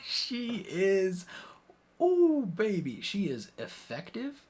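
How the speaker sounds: high, loud delighted gush; gushing excitement. Real, not acted. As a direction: swoon over her like a fan. Gushing over Olivia Colman's character.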